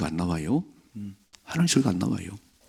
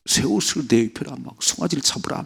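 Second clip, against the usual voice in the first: joyful father; 5 semitones higher than usual. Retold or imitated. Father orders feast for son.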